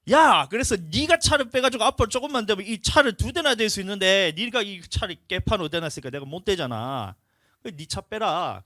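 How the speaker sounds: loud, high, heated scolding that slows down at the end; angry telling-off. Retold or imitated. Pastor scolding the neighbour about the parked car, loud and angry. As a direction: chew out the neighbour over his careless parking. Retold quarrel with car owner.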